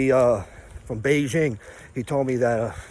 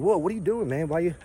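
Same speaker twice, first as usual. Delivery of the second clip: a raised, mildly startled "whoa"; 5 semitones higher than usual. Retold or imitated. Retelling his friend being tailgated, mildly startled and raised. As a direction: imitate a friend caught off guard, lightly. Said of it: "And he was startled".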